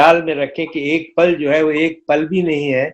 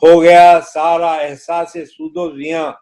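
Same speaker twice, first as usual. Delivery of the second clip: stately nazm recitation. Acted. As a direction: recite the poem with gravity.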